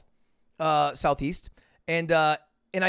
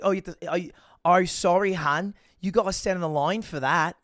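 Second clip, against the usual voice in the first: lightly imitated Australian accent; Australian lady. Airline lady sends traveler to the line, light Australian accent. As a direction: mimic an Australian airline worker.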